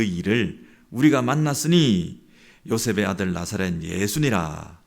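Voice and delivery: loud, measured Bible reading; scripture reading. Acted. Preacher reading the Gospel to the congregation, declamatory. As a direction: read the verses out firmly to the congregation.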